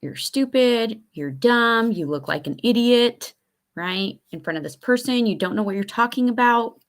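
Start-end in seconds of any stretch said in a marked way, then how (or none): 0.0-3.3 put-on mean girl voice. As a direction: sneer the insults like a mean girl. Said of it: "my mean girl voice comes out".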